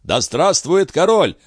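high, slow jubilant cry; rousing mob cheer for the king; crowd cheering. A narrator's reading. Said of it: "дружно кричали все".

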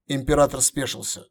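plain reading voice

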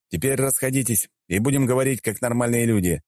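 разнимающий мужчина. Acted. Герой разнимает драку.

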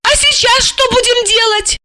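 put-on high, light voice of an eager young woman; young woman's voice. A narrator's reading. Young woman asking her handler, high and eager.

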